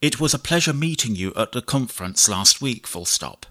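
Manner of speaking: measured dictation, punctuation spoken aloud; slow dictation with punctuation. Shown as a demonstration. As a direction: dictate to the computer, clear and even. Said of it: "I'll do some basic dictation".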